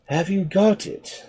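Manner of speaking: slow, heavy shark voice. Acted. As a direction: drag the words like a dull shark. Shark asks.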